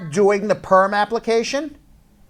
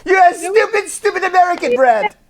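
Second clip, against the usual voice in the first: high, loud hammed-up French accent; mock French accent; 14 semitones higher, 5 dB louder than usual. Shown as a demonstration. Host demonstrating the French-accented insult for his guest to copy. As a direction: sneer it like a stereotyped Frenchman. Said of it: "But you have to say it with your French accent".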